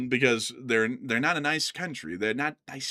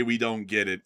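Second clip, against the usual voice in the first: mocking quote; 4 semitones lower than usual. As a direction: sneer out the critic's line. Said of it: "someone's about to come in here and say".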